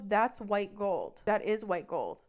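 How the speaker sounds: indignant insisting. Retold or imitated. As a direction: spell it out like she's being dense. Boyfriend insisting during the argument.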